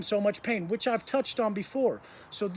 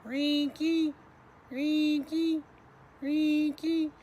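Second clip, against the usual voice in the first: high, squeaky repeated scraping sound; metal-scraping noise; 7 semitones higher, much slower than usual. Retold or imitated. Inmate mimicking the noise from next door, high squeaky scrape. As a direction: imitate a rhythmic squeak, pitched well above speech. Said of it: "I hear a noise. It's".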